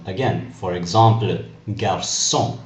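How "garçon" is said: garçon with ç said as S; soft S sound. Shown as a demonstration. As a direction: say garçon as "gar-son", French nasal ending. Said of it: "we pronounce it with an S sound".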